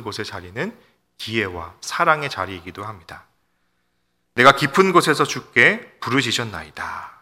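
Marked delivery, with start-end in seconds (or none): 4.3-7.1 scripture cry. Acted. Quoting the psalmist's cry.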